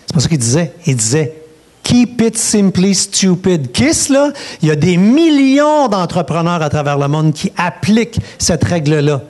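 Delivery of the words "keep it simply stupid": put-on slow, rasping old smoker's voice; Péladeau's smoker's rasp. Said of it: "avec une vieille voix de fumeur". (lente voix rauque de vieux fumeur)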